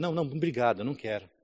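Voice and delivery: soft, shy little no thanks; timid refusal. Retold or imitated. Turning down his friends' offer, timid and soft. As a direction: decline meekly, almost apologizing. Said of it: "Até meio tímido".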